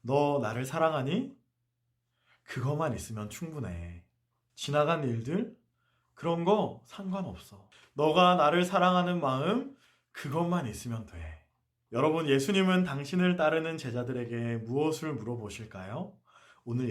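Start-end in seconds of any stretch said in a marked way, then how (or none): 0.0-11.5 gentle Jesus. Retold or imitated. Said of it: "예수님의 말씀이 이렇게 들려요".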